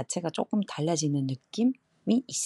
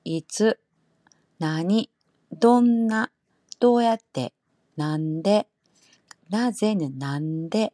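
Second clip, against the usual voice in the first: Kansai accent; 6 dB louder, slower than usual. Shown as a demonstration. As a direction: call out the question words in Kansai dialect. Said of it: "칸사이식으로 발음해보면".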